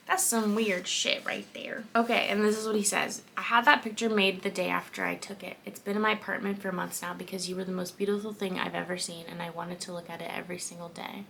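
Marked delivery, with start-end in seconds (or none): 3.4-11.2 low, soft reading voice; story narration. A narrator's reading. Reader voicing the man's confession, story narration. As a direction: read it aloud, settling lower and softer. Reads the book aloud.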